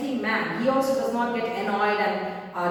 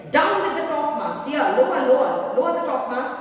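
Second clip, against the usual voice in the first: boatswain's order; 4 semitones higher, 4 dB louder than usual. Acted.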